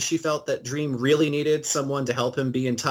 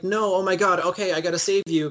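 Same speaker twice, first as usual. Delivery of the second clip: mock panic; 3 semitones higher than usual. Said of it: "Johanna is, like, freaking out".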